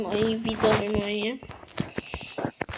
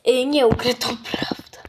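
whispering. Real, not acted. Whispered aside.

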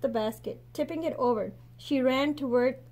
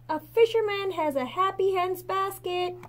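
calling out pitched higher, a mild narrated shout; 7 semitones higher than usual. A narrator's reading. Friend Zhang calling to Mei Mei, a mild narrated shout. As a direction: carry it across the market. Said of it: "he shouted".

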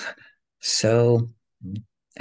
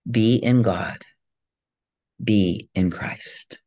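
measured spiritual reading. Acted. Reads a spiritual lecture aloud.

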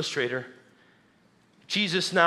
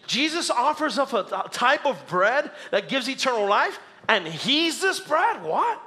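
incredulous crowd; 5 semitones higher than usual. Acted. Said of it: "This confused the crowd".

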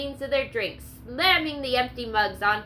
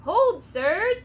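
loud, high shout to stop a fight; sharp, much louder and higher cry; cried out; 8 semitones higher, 7 dB louder, much slower than usual. Acted. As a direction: yell it over the crowd to halt them. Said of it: "a familiar voice cried out".

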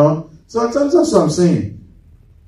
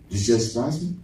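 with some attitude; 6 semitones lower, 9 dB quieter, faster than usual. Retold or imitated. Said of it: "you say with some attitude".

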